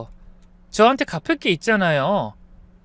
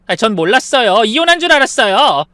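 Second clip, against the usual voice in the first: excuse-making; 3 semitones higher, 6 dB louder than usual. Acted. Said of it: "변명했지만".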